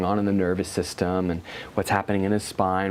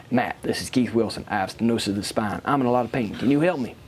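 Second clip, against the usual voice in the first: light Southern accent imitation; Keith Wilson. Client who kept calling for help, imitated Southern accent. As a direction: imitate a pleading Southern caller. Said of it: "deep, deep Southern accent".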